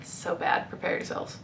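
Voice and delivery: breathy dread before the reveal; hushed warning. Real, not acted. Warning viewers before showing the worst cover, whispered.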